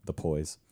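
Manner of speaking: put-on "poise" with a puffed p where boys has b; Welsh-style "poise". Shown as a demonstration. Actor repeating the Welsh character's word, "poise" for boys. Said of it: "instead of the boys".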